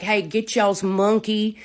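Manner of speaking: loud, acted-out threat; re-enacted fighting talk; retold angry challenge. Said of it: "I was mad".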